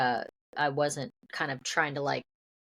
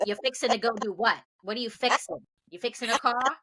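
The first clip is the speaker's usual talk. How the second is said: higher-pitched incredulous questioning; mock bafflement; 7 semitones higher than usual. Mimicking people puzzled by "fixing to", incredulous.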